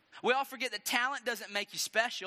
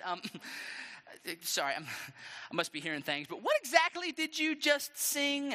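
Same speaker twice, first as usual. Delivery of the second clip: hesitant start, then high, stretched question; king feigning mishearing; 6 semitones higher than usual. Acted. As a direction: act puzzled, then press the question. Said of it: "called the women over and said".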